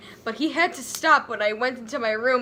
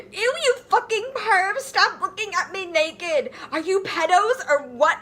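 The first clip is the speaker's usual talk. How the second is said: high mock scream; 8 semitones higher than usual. Ebony screaming at the peeping teachers, hammed-up. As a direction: shriek at the perverts. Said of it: "I screamed".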